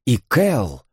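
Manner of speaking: usual speaking voice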